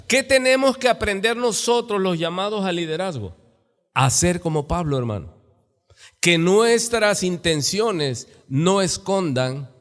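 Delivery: ordinary talk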